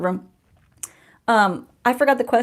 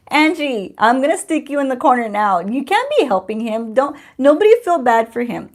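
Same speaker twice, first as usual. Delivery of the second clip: mock telling-off, pitched higher; playful scolding; 4 semitones higher, 5 dB louder than usual. Telling Angie off for helping him, mock scolding. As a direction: scold in fun, raised pitch and voice.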